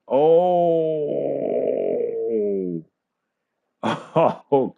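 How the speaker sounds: a sudden high, loud shocked Oh; surprised. Real, not acted. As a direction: gasp it out in real disbelief. Shock at title change on stream.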